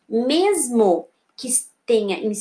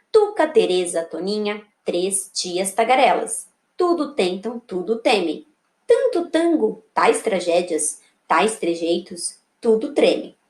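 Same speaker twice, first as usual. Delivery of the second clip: put-on measured, slow poem recital for children; poem reading; 3 semitones lower, slower than usual. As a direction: read the verse line by line, unhurried. Reads poem to pupils.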